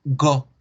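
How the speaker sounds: "go" with a loud, steady o; pure Spanish O. Shown as a demonstration. Teacher bans this form to students, pure Spanish O. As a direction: say "go" strongly with no glide. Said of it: "no los voy a escuchar nunca decir".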